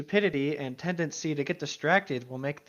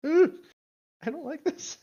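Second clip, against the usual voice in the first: uneasy ooh; 10 semitones higher than usual. Real, not acted. Reacting to fic twist.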